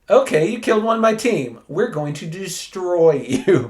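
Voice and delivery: high, fast mock threat; a retold team's fast angry threat. Team threatens Superman after a kill.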